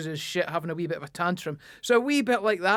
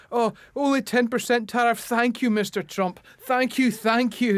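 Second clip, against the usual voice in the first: grovelling Britain; 4 semitones higher than usual. Retold or imitated. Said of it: "I'm thinking".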